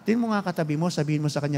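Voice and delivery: low hushed prompt to the congregation; quiet instruction. Shown as a demonstration. Pastor quietly telling church to say it to their neighbour. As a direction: softly tell your neighbour the word. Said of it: "Pinasasabi lang natin".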